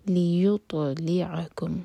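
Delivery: لیطلعکم with the ط bounced, whispered; bounced taa. Shown as a demonstration. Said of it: "تو کو ہم bounce کریں گے".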